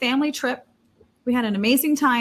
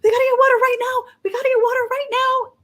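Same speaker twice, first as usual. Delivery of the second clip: high, loud, desperate pleading; breathless panicked cries for water; frantic panic; 12 semitones higher, 6 dB louder, faster than usual. Retold or imitated. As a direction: beg for water in a full panic. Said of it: "I was just freaking out".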